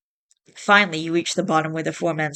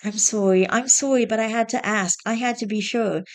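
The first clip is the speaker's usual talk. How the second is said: watery voice; 5 semitones higher than usual. Acted. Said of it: "in a watery voice".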